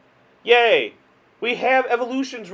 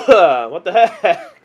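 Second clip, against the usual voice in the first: incredulous; 7 dB louder, much slower than usual. Real, not acted. After coughing fit.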